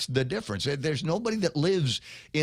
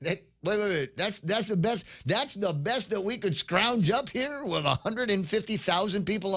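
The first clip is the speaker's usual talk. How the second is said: high, incredulous mock complaint; higher-pitched disbelieving voter voice; imitating incredulous people; 6 semitones higher than usual. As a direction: play a baffled voter asking if that's it. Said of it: "there might be some people saying".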